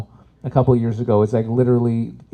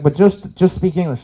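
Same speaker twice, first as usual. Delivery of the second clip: insistent mom; 5 semitones higher, 6 dB louder than usual. Retold or imitated. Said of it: "She's like".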